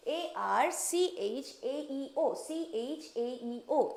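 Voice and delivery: letters drawn out very slowly; slow spelling. Shown as a demonstration. Teacher stressing the tricky letters to remember. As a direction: spell it out one letter at a time. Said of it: "इसको ध्यान रखना है".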